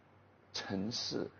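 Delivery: "城市" said with no G at the end of "城"; "城市" with "cheng" clipped to "chen"; accented demo without G. Shown as a demonstration. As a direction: drop the final G in "城市". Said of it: "without a G in the back".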